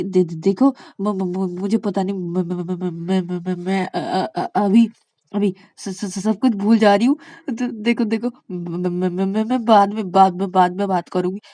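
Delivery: repeated syllables, losing the thread; flustered stammer. Acted. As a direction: stammer your way out of the call. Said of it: "कैसे डरती है ये मुझसे".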